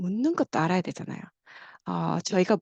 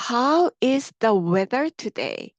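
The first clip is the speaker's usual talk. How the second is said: slow, careful model sentence; drawn out for students to copy; a bit louder, teacher demo; longer version; 4 semitones higher, 4 dB louder, much slower than usual. Shown as a demonstration. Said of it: "조금 더 길게".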